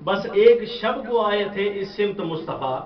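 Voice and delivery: measured recital of verse for a gathering; poem recitation. Acted. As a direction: recite the couplet, lingering on key words. Recites couplets to audience.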